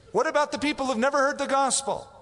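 mock questioner. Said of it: "I have people all the time".

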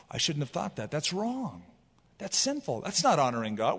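quiet self-rebuke, under the breath. Retold or imitated. Mature believer quietly rebuking his own thoughts, hushed. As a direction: catch yourself softly, scolding your own thoughts. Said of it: "you go".

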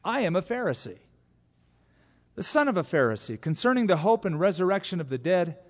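high, loud appeal to the council; crying out. Acted. Paul crying out to the divided council, high and loud. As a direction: call it out over the crowd. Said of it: "he cried out in the council".

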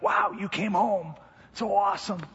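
high-pitched, put-on excited dog voice. Dog greeting owner at the door, playfully excited. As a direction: play an overjoyed pup greeting its owner. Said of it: "He's all excited, like".

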